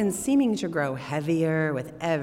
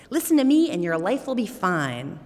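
squeaky little man; 3 semitones higher, 5 dB louder than usual. Acted. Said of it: "with a squeaky voice".

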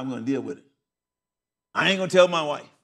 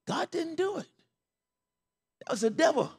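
emphatic correction; 12 semitones higher, 4 dB quieter than usual. Real, not acted. Correcting her belief, emphatic.

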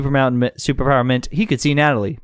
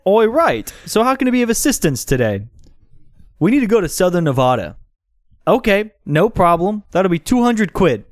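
raised-pitch British dealmaker voice; dodgy British mate; 6 semitones higher than usual. Acted. Mate offering help for money, raised British character voice. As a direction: put on a chummy Brit, pitched up.

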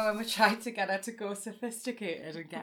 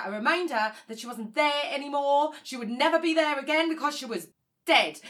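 building from plain to louder and faster, ending on a loud dead; building grief; 3 semitones higher, 4 dB louder than usual. Acted. Sister tells the story of Mam's death, building to a loud dead. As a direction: let the grief rise until dead bursts out.

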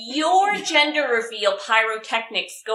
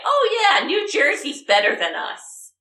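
mock New Yorker; 2 semitones higher, 3 dB louder than usual. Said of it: "that's the last thing a New Yorker would say".

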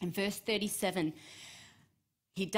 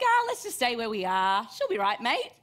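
laid-back shrug; 2 semitones higher, 7 dB louder than usual. Pretend. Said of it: "He's like".

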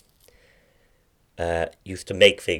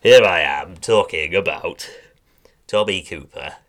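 lightly impersonated chat-show host; a hint of a TV interviewer introducing his topic; Michael Parkinson; 5 dB louder than usual. Impressionist presenting Tommy Cooper as Michael Parkinson, lightly impersonated. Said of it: "Yeah, I'm being Parky".

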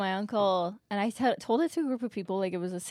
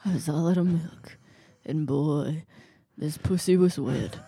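noir detective; 5 semitones lower than usual. Acted. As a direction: drag it out like a jaded detective. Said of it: "It's noir".

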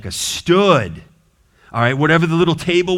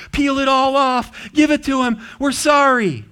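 panicking king; 10 semitones higher, 4 dB louder than usual. Retold or imitated. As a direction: play the king in a hammed-up panic. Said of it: "and he's panicking".

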